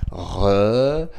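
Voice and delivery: "Renard" in two held, low syllables. Shown as a demonstration. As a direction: separate "re" and "nard" with a gap. Teacher models syllables of word.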